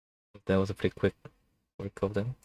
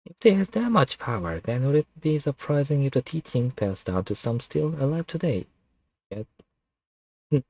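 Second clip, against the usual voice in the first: snake voice; 6 semitones higher than usual. Acted. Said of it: "snake voice was really taxing".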